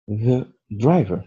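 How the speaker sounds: "The driver" read slowly for learners; slow model reading. Shown as a demonstration. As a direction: spell it out slowly for the class. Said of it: "Deuxième exemple maintenant". (lecture lente pour les élèves)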